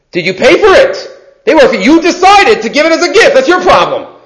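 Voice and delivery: stern rebuke. Acted. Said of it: "looks at her sternly and says".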